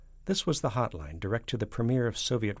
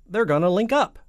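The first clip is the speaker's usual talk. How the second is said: loud, high presidential outburst; shouted; 12 semitones higher, 11 dB louder than usual. A narrator's reading. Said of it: "shouted the president".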